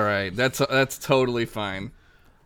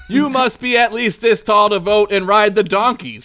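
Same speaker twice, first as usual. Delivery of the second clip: laughing through the sign text; 9 semitones higher, 8 dB louder than usual. Acted. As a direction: read it while cracking up. Reading the city signs aloud.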